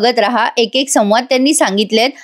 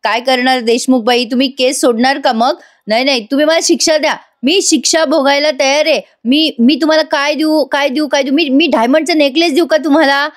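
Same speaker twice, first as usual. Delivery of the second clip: mock-frightened begging, pitched up; nervous pleading; 3 semitones higher than usual. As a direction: imitate a flustered man hurriedly bargaining for forgiveness. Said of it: "Mahipat घाबरत म्हणतो". (घाबरल्याचा आव आणत गयावया)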